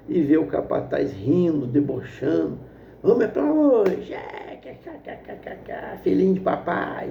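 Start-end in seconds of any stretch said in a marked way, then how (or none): 3.0-7.1 mocking taunt. Foreman mocks the farmer's son while he works, sneering. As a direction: sneer at the rich kid. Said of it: "zombando dele".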